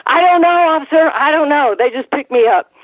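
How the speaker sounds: high-pitched mock English accent, easing down; thick English accent. Davy Boy pleading ignorance to officer, imitated English accent. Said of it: "get that real thick, um, English accent".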